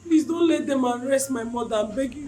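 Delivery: loud, urgent begging; desperate pleading. Acted. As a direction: plead hard to stop an arrest. Wife begs as officers take mother.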